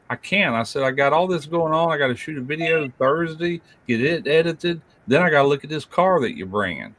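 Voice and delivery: busy excuse. Retold or imitated. Dad retelling excuses to son.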